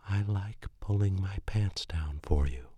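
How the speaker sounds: breathless dazed whisper; hypnotized whisper. Acted. Girlfriend repeating his words, entranced whisper. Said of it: "as if hypnotized".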